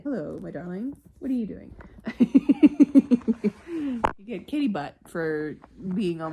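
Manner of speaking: hushed and tender, whispering. Real, not acted. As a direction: coo to the kitten. Talking to kitten.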